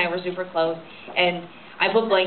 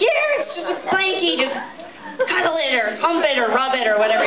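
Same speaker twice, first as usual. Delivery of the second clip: higher, mock-soothing parent voice; 8 semitones higher than usual. Parent handing a crying baby a blankie, mock-soothing and higher. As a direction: hand over a blankie to hush a crying baby. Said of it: "they're like".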